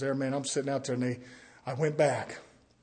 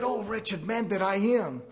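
humble lament; 5 semitones higher, slower than usual. Retold or imitated. Paul confessing his weakness, slow lament. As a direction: sigh it out like a broken man. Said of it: "he said".

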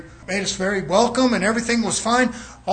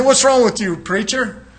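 higher-pitched challenge, as from a listener; mock objection; 3 semitones higher, slower than usual. A listener challenges the preacher, mock objection. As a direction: put on an objector questioning the preacher. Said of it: "You say".

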